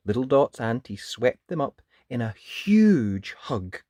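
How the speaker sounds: varied, expressive bedtime-story read; children's storytelling. A narrator's reading. Narrator introducing the wizard to children, expressive storytelling. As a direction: linger on key words for young listeners.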